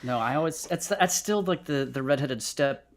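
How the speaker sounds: ordinary talk, nothing marked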